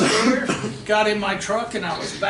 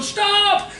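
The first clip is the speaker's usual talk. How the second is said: high, loud drawn-out yell; retold scream; 12 semitones higher, 5 dB louder than usual. Lady running down after the truck, imitated shout. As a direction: imitate a frantic holler to halt. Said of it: "that lady running down going".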